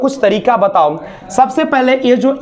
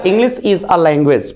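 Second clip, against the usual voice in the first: slow model sentence; 5 semitones lower, much slower than usual. Shown as a demonstration. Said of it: "teacher models sentence".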